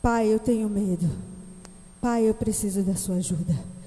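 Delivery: put-on low, soft, pleading child; a frightened child begging his father; child crying. Child on the slide calling to his father, tearful. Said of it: "ele começa a chorar e fala".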